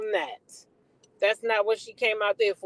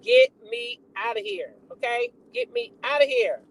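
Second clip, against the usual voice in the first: higher mock plea; hammed-up rapper begging to leave; imitating a rapper; 10 semitones higher than usual. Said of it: "She said".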